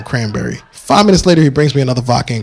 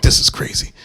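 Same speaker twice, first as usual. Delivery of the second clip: whisper. Retold or imitated. Sneaking so kid won't wake.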